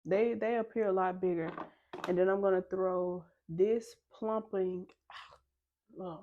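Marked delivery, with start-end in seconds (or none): 2.1-4.9 slightly slurred words from a retainer; wearing a retainer. Real, not acted. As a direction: talk around a retainer in the mouth. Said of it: "I got this retainer in".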